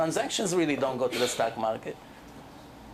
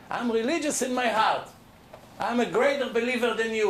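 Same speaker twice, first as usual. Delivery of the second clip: mocking self-righteous claim; 6 semitones higher than usual. Rabbi mimics secular Jews to his congregation, smug and higher. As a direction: play the boastful believer. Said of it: "That's what they say".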